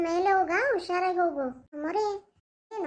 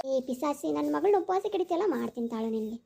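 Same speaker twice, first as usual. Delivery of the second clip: menacing ghost mother; 6 semitones lower than usual. Acted. Ghost mother threatens in aside.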